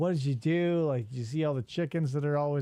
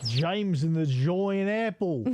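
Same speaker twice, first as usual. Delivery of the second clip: put-on slow, drawn-out New Zealand accent; Kiwi accent; slower than usual. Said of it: "How's my Kiwi accent doing".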